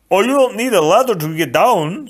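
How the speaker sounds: high, loud, eager voice; Fezzik, helpful giant. A narrator's reading. Fezzik tells Buttercup no ladder is needed, eagerly. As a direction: brush the worry away cheerfully.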